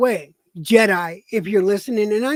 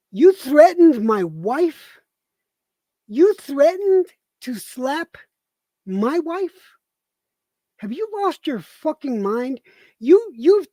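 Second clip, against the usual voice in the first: outraged demand; 3 semitones higher, 3 dB louder than usual. Real, not acted. Furious husband confronting the man who threatened his wife. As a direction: spell out each word of the accusation.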